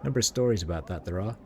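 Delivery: lightly voiced Sigil street accent; rat catcher's accent. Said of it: "it's all written in their accent".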